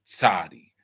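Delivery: "Tzadi" opening on a clear ts; blended ts onset. Shown as a demonstration. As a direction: join t and s to start "Tzadi". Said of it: "It's a combination of them both".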